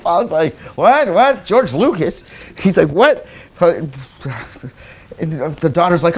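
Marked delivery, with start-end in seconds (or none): 0.8-3.3 stunned disbelief. Retold or imitated. Bob's stunned reaction.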